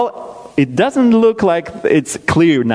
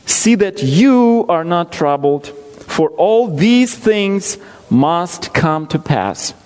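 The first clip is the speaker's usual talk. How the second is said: scripture reading. Acted. Preacher reading Matthew to his congregation, measured. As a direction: read the verses steadily, with weight.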